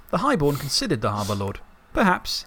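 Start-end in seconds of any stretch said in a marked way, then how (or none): 1.9-2.4 said evenly. A narrator's reading. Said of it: "he said evenly".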